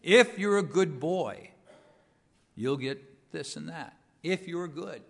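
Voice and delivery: measured parental bargaining, emphatic at first; parent's conditional promise. Acted. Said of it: "hear my parents talking like that".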